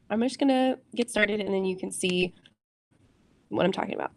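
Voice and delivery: talking around a piece of gum; chewing gum while explaining. Real, not acted. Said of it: "Sorry, I have gum in my mouth right now".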